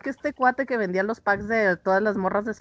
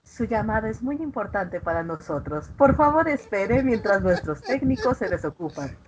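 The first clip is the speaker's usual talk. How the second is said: customer service voice. Pretend. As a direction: read it like a polite phone recording. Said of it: "tiene buena voz".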